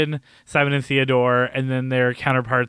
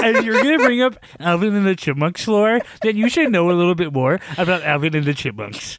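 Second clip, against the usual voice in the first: gatekeeping nerd voice; 3 semitones higher than usual. Acted. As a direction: lecture like a snooty superfan. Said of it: "I really like your gatekeeping nerd voice".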